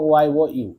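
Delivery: "ওয়াই ও" piece by piece, then "ইউ"; sound breakdown. Shown as a demonstration. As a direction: take "ইউ" apart as "ওয়াই ও ইউ". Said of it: "এটা উচ-, means করো". ("ইউ"-কে ভেঙে "ওয়াই ও ইউ" বলা)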